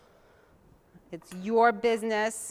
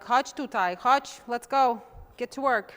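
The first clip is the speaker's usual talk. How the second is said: mom calling; 3 semitones higher, 6 dB louder than usual. Retold or imitated. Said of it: "She'd be like".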